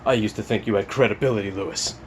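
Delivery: sneering imitation of internet commenter; mock the snooty commenter. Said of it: "from some fuckface saying".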